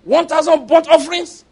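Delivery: high, loud mock rapture, laughing; hammed-up delight. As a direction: gush over the offerings in mock awe. Mocking delighted reaction to offerings.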